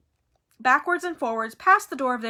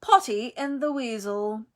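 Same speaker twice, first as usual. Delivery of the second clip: slow, sneering taunt; bully's mocking nickname; lazy drawl. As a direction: savour the insult slowly. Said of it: "lazy drawl".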